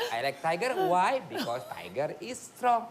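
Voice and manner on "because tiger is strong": slow, held-back prompt; dad holding in frustration, coaching the answer slowly; strained patience. Retold or imitated. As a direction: keep your temper while spelling it out slowly. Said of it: "Ini udah mulai emosi gue ya".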